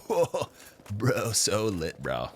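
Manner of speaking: slow, dazed stoner drawl; hazy stoner bro. Retold or imitated. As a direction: play a baked bro at the bonfire. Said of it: "some people that actually sound like that".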